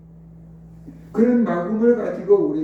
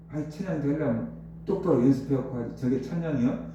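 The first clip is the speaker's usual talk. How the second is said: muttered mock carping, softer than the preaching; sneering; 3 semitones lower, 5 dB quieter than usual. Churchgoer belittling the praise singing, sneering under the breath. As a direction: imitate a scornful critic grumbling. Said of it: "사람들이 비아냥 거릴 수도".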